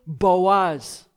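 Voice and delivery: "Boaz." landed after a pause, falling firmly; weighty, falling "Boaz."; emphasis on Boaz. Shown as a demonstration. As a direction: reveal "Boaz." as the payoff. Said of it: "pause for emphasis".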